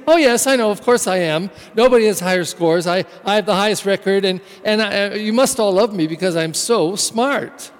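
smug, self-satisfied bragging; proud conceited boast. Acted. Preacher mocks a boastful student, smug and proud. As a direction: preen like the smartest kid in school. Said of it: "That is proud and conceited".

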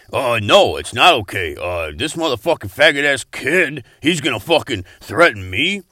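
loud, indignant outburst; outraged. Acted. Host furious that Marcus threatened him, loud. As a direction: blow up at the threat.

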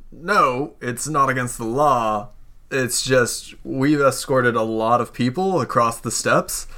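lightly voiced escort, slow and drawn out; matter-of-fact escort character. Escort explains steppe crossings to a visitor, slow and matter-of-fact. Game master plays an escort.

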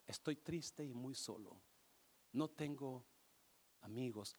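a touch of loneliness; mild sadness. Acted. El señor triste y solo. (un toque de tristeza)

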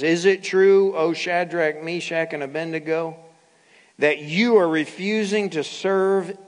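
a king's forceful demand, delivered with deliberate weight; angry king. Acted. King confronts the three Hebrews who refused to worship, stern and imperious. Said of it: "the king was angry".

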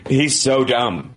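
slow dopey drawl on He's so dumb. Retold or imitated. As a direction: play it dim-witted and slow. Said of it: "you make him so dumb".

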